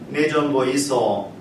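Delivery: slow, light Gyeongsang dialect; a hint of Gyeongsang dialect, drawn out. Shown as a demonstration. 경상도 사투리로 천천히. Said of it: "경상도에서는".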